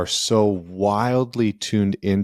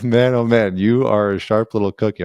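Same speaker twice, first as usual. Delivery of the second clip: playful praise; 2 semitones higher, 4 dB louder than usual. Retold or imitated. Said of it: "I'm like".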